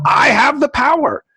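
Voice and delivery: a lightly shouted cartoon hero cry; He-Man. Host quoting a childhood cartoon hero, mock heroic shout. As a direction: raise the sword and proclaim it. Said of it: "He-Man".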